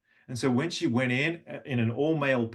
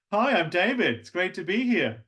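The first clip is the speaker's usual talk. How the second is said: higher, lifted greeting; 7 semitones higher than usual. Retold or imitated. Tenor walking around Australia, greeting higher. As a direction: speak it up behind the eyes. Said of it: "Speak a little bit higher".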